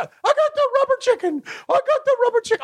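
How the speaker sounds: very high gleeful fan voice; excited fan voice. Retold or imitated. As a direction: crow it like a giddy fan. Voicing fan with chicken.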